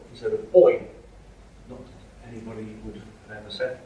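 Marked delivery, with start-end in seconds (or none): 0.6-0.9 short hail, louder and higher; calling out. Acted. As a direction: call out to get a friend's attention. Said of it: "calling to his friend and saying".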